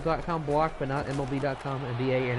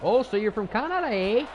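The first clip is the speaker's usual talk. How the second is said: Canadian accent; 6 semitones higher than usual. Shown as a demonstration. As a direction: do a quick Canadian accent on request. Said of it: "Make your best Canadian accent".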